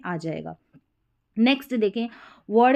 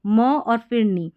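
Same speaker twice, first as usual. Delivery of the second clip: syllables split slowly; 4 dB louder, slower than usual. Shown as a demonstration. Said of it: "एक से अधिक syllable है".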